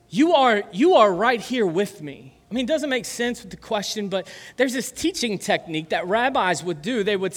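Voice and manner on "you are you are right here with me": louder, higher, earnest cry; Jesus speaking. Retold or imitated. Preacher voicing Jesus on the cross, loud and earnest. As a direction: call it out as if claiming God is near. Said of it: "what if Jesus was like".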